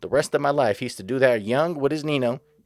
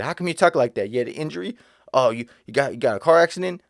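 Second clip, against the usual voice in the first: imitating a snide, sneering question; a touch of condescension, mock concern; rude mocking question; 3 semitones higher than usual. Imitating the store stranger mocking his injury, snide. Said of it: "But the way he said it, it was rude".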